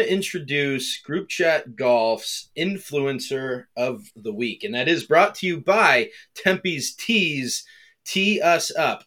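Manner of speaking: slow ad-read announcing the segment; announcer. Acted. Host launches the new segment, announcer voice. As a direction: announce the sponsor like a radio spot.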